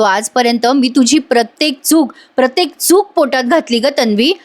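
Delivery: mild tearful reproach to the wife; retold crying plea. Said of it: "Ashwin रडून म्हणत असतो".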